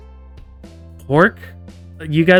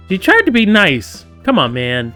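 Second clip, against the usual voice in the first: mock-indignant protest; 6 semitones higher, 4 dB louder than usual. Scolding game character in protest.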